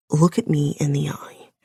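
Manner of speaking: hushed command, lightly voiced man; whispered male command. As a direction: breathe the order like a man in control. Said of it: "coming from his voice now".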